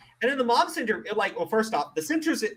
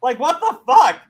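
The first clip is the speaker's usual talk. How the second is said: louder, exasperated what the fuck; exasperated outburst; 5 semitones higher, 9 dB louder than usual. Real, not acted. Ranting podcaster fed up with the boys' family, exasperated. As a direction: throw up your hands at their stupidity.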